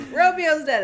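high, loud mock-innocent squeak; mock Juliet. Retelling Romeo and Juliet to a friend, high mock-innocent voice. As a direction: play Juliet as a ditzy, cheerful girl. Mocking Juliet's flat reaction.

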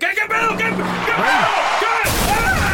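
very high, startled yelping; comic panic rising into a scream; acted panic. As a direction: re-enact a panicked driver jumping. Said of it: "y yo así de".

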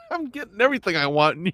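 gentle amused chuckle through words; kind gentle laugh. Real, not acted. Laughing at friend's comment.

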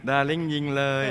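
"ดาริ่งยิงเลย" said teasingly like to a sweetheart; playful darling dare. Retold or imitated. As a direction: coo the dare at him. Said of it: "ดายิง". (ท้าแบบหยอกล้อ เรียกดาริ่ง)

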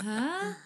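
overdone effort breath, clearly put on; fake effort breath. Host mimics the actor's fake efforts, exaggerated breath. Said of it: "it sounds super fake".

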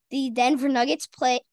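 hiccup breaking the phrase. Real, not acted. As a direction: speak through hiccups. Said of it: "oh my gosh, these hiccups".

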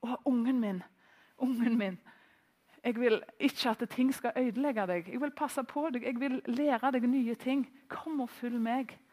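acted tender plea of a parent to a child; burning longing. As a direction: voice God gently longing for a child, slowing at the end. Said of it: "brennende lengselen Gud har etter". (inderlig, lengtende bønn til barnet)

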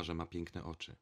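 usual speaking voice

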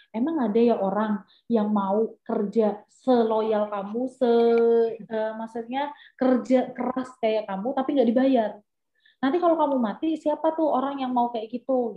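mild mock telling-off, drawn-out words at first; retold scolding. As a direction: imitate a judge scolding, slow and emphatic at the start. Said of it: "Dimarahinnya kayak gini".

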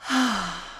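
a retold, audible sigh of relief; imitated sigh of relief. Acting out the client plopping into the chair, a mock sigh of relief. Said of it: "does this audible sigh of relief".

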